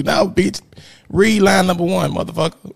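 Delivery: put-on teacher snapping at a kid who won't read; mock stern teacher. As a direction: play a fed-up teacher ordering a kid to read.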